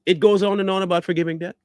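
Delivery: sneering imitation of the clip; mocking quote. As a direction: parrot his line to ridicule it. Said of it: "clip line repeated mockingly".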